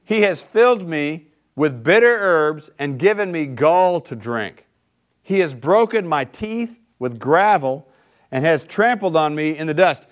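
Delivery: slow, weighty scripture reading. Acted. Pastor reads Lamentations slowly to the congregation, grave reading.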